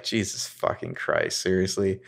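sag and let the words go softly; exasperated. Retold or imitated. Toby fed up with the girls, soft exasperated mutter. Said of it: "just like".

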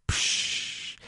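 drawn-out "psch" shush; hushing. Acted. People silence a would-be leader, hushing. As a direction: cut them off with a shush.

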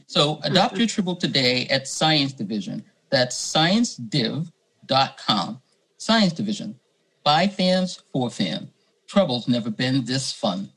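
upbeat sponsor ad read. Acted. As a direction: pitch it like a radio ad. Reads a sponsor ad.

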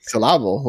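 "syllable" echoed as suh-LAB-ul; mock-fancy "syllable", stressed in the middle; misplaced stress. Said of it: "Ooh, French".

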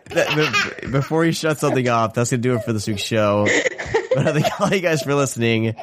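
signing off through laughter; chuckling while wrapping up the show; laughing. Real, not acted. Signing off while child interrupts.

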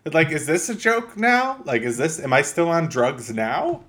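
incredulous, rising questions; player's bafflement. Retold or imitated. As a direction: act out a baffled player losing the thread. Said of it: "you're like".

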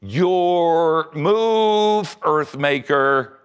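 loud, high, jeering challenge; shouted taunt. Acted. World hater jeers at Earthmaker, loud mocking shout. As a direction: shout up into the fog in triumph.

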